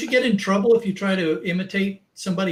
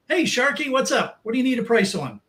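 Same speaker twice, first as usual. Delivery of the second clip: high, chirpy scrapyard receptionist impression; imitating phone receptionist; 7 semitones higher than usual. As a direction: mimic a familiar phone greeting, pitched up. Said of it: "when they answer the phone".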